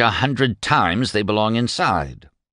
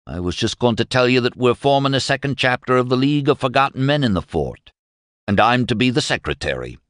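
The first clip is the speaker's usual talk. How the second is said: derisive; 6 semitones higher than usual. Acted. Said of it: "He was derisive now".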